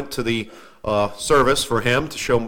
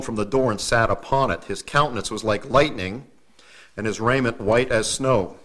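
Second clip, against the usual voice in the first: scripture reading. Acted. Preacher reading Easter scripture to the congregation, measured.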